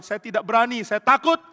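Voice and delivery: high, loud mock plea of fear; fearful prayer. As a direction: confess fear to God, pleading. David confessing fear in prayer.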